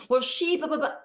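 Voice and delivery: high mock whine of a kid blaming her sister; whiny kid. Parent mimicking daughters blaming each other, light high whine.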